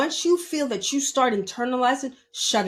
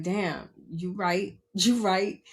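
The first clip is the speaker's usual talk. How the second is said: teary admission; slower than usual. Retold or imitated. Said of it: "I got teary-eyed".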